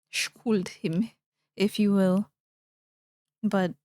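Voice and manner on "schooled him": breathy whispered aside; hushed unvoiced repeat. Shown as a demonstration. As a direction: whisper the words like a secret jab.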